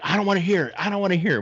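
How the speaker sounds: very high, whiny crying voice; mock crying daughter; crying teen. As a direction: whine it like a sobbing teen covering her ears. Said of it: "like, crying".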